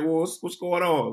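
nervously asking what's going on. Retold or imitated. His own nervous reaction.

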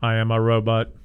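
mock robot voice. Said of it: "I can talk like a robot".

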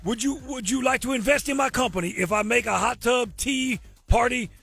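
lightly put-on Cajun man voice; bad Cajun accent, hammed up. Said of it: "my very bad Cajun man impersonation".

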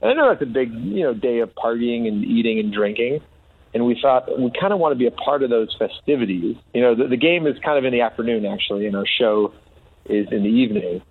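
big announcement voice; announcing big news. Acted. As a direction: declare it like breaking news. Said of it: "That's the announcement".

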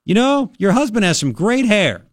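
imitating a yell across rooms; retold yell. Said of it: "I yelled".

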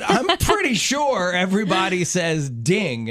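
slow, stressed insistence that it is DING; emphatic correction. Retold or imitated. Correcting friend about phone noise, emphatic on DING. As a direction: lean on PRETTY SURE and DING. Acted argument over the word.

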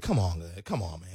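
low, soft groaning disapproval; disappointed crowd. Retold or imitated. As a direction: groan it like a let-down audience.

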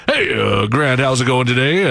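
lightly put-on radio host voice; a touch of mock on-air patter; fake radio voice. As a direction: imitate a host switching on for air. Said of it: "the fake voice".

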